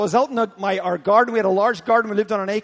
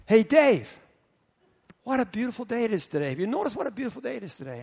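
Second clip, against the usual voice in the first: gentle divine voice; 2 semitones higher, faster than usual. Acted. Holy Spirit speaks gently in garden.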